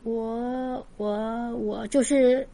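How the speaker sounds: softly faltering, unsure what to answer; hesitant stammer. Retold or imitated. Retelling how the ghost-hunting girl faltered when asked about ghosts, softly hesitant. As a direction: stall over each word, caught off guard. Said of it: "然后犹豫一下".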